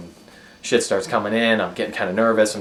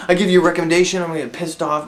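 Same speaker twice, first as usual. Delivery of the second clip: laughing while quoting; 10 semitones higher, 7 dB louder than usual. Retold or imitated. Friend voiced, laughing.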